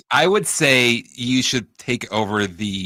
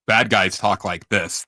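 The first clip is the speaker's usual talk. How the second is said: put-on Russian man's American-villain accent, lightly done; slow bad-guy American accent impression; mock American accent; 3 dB louder, slower than usual. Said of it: "is that an American accent?".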